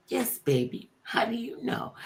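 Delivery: put-on soft, tender question to a child; gentle reply. Star answering a little twin, gentle. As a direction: answer softly and sweetly.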